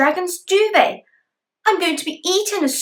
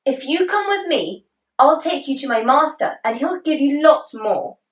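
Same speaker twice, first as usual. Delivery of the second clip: coaxing horse; 4 semitones higher than usual. Acted.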